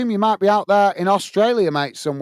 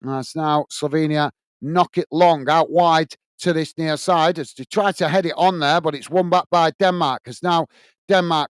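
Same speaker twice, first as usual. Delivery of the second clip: steady football commentary, following the ball; live play-by-play. Acted. Commentator calling Denmark against Slovenia for fans, live play-by-play. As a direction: call the match as it unfolds.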